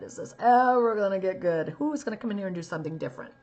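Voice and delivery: weary, exasperated plea; a hint of a fed-up casting director; lightly voiced bored casting director. Casting director wishing for someone different, lightly voiced weariness. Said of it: "the casting director is going like this".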